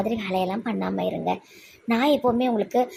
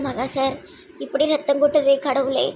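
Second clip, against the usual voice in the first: raised, upset lament; tearful distress; 4 semitones higher, 3 dB louder than usual. Acted. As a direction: fret tearfully over someone bleeding. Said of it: "ஏன் அழுறீங்க?".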